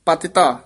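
"ਪਤਿਤਾ" set apart by a brief break; "ਪਤਿਤਾ" on its own, falling, then a breath; yamak pause. Shown as a demonstration. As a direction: halt briefly after "ਪਤਿਤਾ". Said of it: "ਇੱਥੇ ਯਮਕ ਲਾ ਦੇਣੀ ਹੈ".

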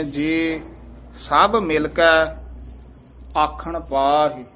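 ਜੇ set apart, then the phrase slowly; careful recitation stressing ਜੇ. Shown as a demonstration. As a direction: mark ਜੇ with weight and a pause. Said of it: "ਜੇ ਤੇ ਯਮਕ ਲਾ ਦੇਣੀ ਹੈ".

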